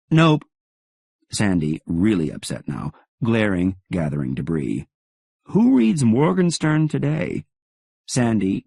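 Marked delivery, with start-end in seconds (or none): 0.1-0.4 sharp high loud nope; curt nope. Acted. Clerk shutting down a phone caller, sharp loud refusal. 5.5-7.4 scornful clerk. Acted.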